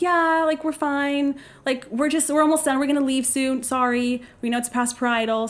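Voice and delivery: put-on anxious teen calling through the bathroom door, high and chipper; nervous cheery reply. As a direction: chirp back to sound innocent. Answering officer through door.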